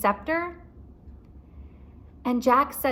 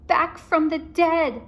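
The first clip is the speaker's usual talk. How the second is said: high, slow, louder dread; spooky Annie; 8 semitones higher, 6 dB louder, slower than usual. A narrator's reading. Annie naming the mummy, slow spooky alarm. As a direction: draw it out like a ghost story. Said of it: "said Annie".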